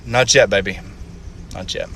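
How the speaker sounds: resigned motherly reassurance, sinking in pitch; gentle mother. Acted. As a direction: break it gently to a small child. Mama gently answers little son.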